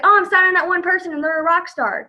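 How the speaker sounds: mock excitement. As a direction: imitate someone getting carried away. Mimics a naive, overexcited recruiter.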